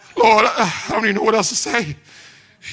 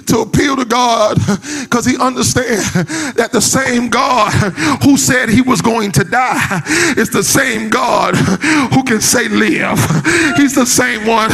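full-force sermon delivery in short punched phrases; preaching. Real, not acted.

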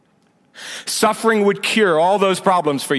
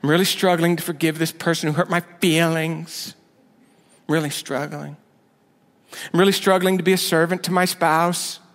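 whiny struggler. Retold or imitated. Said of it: "That's struggling for us".

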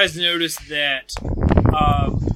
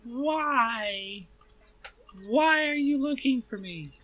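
Tulio voice; 11 semitones higher than usual. Acted. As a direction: pitch it up, uneasy and wary. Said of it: "And Tulio says".

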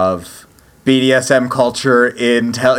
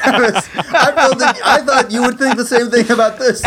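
mock stern tone; 8 semitones higher than usual. Mock formal address, high far voice.

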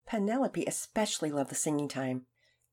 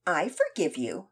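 haughty. Acted. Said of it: "a tone that was edged with haughtiness".

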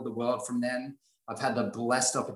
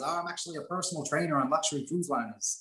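light Irish lilt, lightly done; a hint of Irish fiance; Irish accent; 3 semitones higher than usual. Imitating Lauren's Irish fiance, light Irish accent. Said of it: "Excuse the accent".

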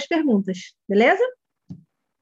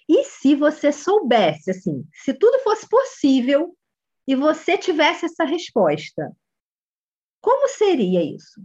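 patient coach voice, slow and inviting; slow, gentle inviting question; 2 semitones higher, slower than usual. Shown as a demonstration. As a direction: coax the child to imagine, unhurried. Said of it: "É outra coisa".

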